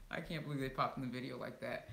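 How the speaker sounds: ordinary talk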